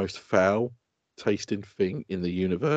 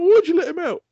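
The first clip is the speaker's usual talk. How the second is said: high, louder "why'd you" question; exasperated; 6 dB louder than usual. Retold or imitated. Father asks son why he let hamster out, exasperated and louder. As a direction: demand it of the child.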